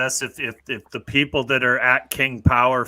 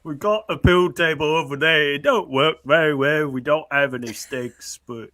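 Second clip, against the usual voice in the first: put-on Yorkshire accent; 3 semitones higher than usual. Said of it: "now your Yorkshire accent".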